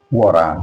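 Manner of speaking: WATER with the T tapped like an R; American flap T. Shown as a demonstration. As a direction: say WATER with an R sound for the T. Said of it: "It sounds like R".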